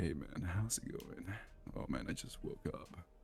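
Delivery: mock gravelly morning voice. Reenacting how they sounded joining a call right after waking, gravelly morning voice. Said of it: "I can I can I can reenact it".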